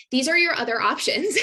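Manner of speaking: amused by her own point; light laugh. Real, not acted. Coach to viewers about diet options, laughing lightly.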